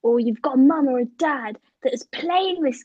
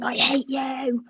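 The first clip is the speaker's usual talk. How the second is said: slow, drawn-out mock venom at usual volume; imitated angry gamer; slower than usual. Brother playing FIFA as sister walks in, mock anger. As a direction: stretch it out, mock-hateful. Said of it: "And he's like".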